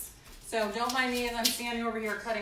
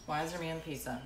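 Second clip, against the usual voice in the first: put-on deadpan echo of child; 4 semitones lower, 6 dB quieter, faster than usual. Repeats child's complaint to viewers.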